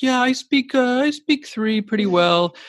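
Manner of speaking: high, slow, falsely humble voice; modest foreigner. Retold or imitated. Podcast host mocking how modest foreigners sound about languages, high and shy. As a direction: play down your language skills in a small high voice. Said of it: "They're like".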